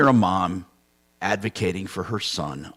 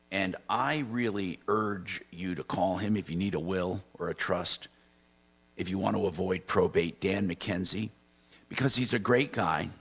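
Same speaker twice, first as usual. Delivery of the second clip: host's easygoing live endorsement; sponsor read; 4 dB quieter than usual. Real, not acted. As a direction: read the sponsor plug evenly, spelling out the number. Host reads sponsor plug.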